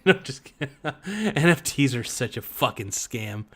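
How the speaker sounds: real laughter breaking through the words; laughing. Real, not acted. Laughing after the fake NFT pitch, real chuckle.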